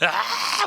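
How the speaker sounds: put-on a loud high wail as the boy bursts into tears; a boy wailing as his mother yells at him; crying wail. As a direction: let out a child's bawling cry. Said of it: "울었어요".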